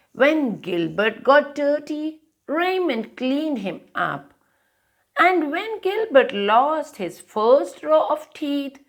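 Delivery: lively storybook read-aloud; reading to children. A narrator's reading. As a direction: read it like a bedtime picture book. Reads picture book aloud.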